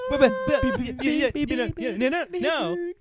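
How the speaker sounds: high, stammering and repeating; mock stutter. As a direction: stutter through every word.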